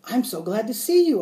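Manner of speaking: high, loud, delighted squeal; hamster squeak. A narrator's reading. Hamster greeting his teacher, glad high squeak. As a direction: squeak it out gladly. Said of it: "I squeaked".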